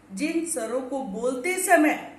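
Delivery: normal talking voice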